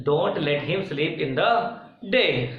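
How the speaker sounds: बहुत धीमे, हर शब्द अलग; लिखवाने की तरह खींचकर बोलो; slow dictation. Shown as a demonstration. Dictating to students. (शिक्षक छात्रों को वाक्य लिखवाते हुए, बहुत धीमे)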